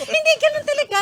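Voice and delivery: high, loud protest while laughing; squealed-up voice in real amusement; laughing insistence. Real, not acted. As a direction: keep insisting, helpless with laughter. Still insisting through laughter.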